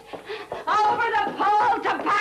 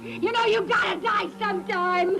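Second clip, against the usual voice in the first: angry yelling; 4 semitones higher than usual. Acted. Wife shouting at Harry to forget the sea. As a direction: yell at him through tears.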